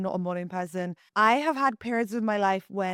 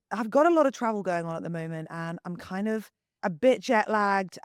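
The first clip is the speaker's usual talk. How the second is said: husky morning voice. Real, not acted. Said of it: "giving me husky morning voice".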